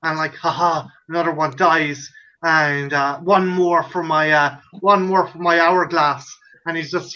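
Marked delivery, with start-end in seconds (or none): 0.3-6.3 low mock-sinister gloating; Donald Pleasance. Reaper figure in a safety advert counting drowned kids, low mock gloating. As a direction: gloat in a low, understated villain voice. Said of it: "he's pure fucking delighted".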